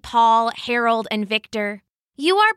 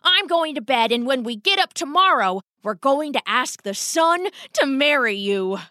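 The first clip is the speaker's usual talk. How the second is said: decided rat father; 3 semitones higher than usual. Acted. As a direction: announce the plan as final, building to glee.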